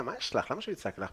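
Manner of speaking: dismissive reply. Retold or imitated. Teller quotes answering his companion, softly dismissive. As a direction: brush it off very softly.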